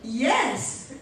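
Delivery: mock-patient slow explanation; speaking slowly. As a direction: spell it out as if to a foreigner. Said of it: "So you think if you speak slowly".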